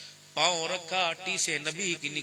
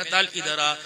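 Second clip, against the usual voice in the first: loving call; 5 dB louder than usual. Shown as a demonstration. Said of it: "تعال پیار کا لفظ ہے".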